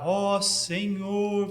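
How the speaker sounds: slow, drawn-out pious invocation; mock churchy intonation; affected religious address. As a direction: mimic a solemn prayer voice, stretching the words. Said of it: "você muda a entonação de voz".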